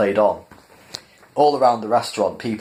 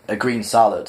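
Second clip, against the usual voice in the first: firm, insistent "A green salad" with a falling end; emphatic. Acted. Arthur refusing the animal's liver, emphatic and firm. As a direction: put your foot down on "salad". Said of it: "said Arthur emphatically".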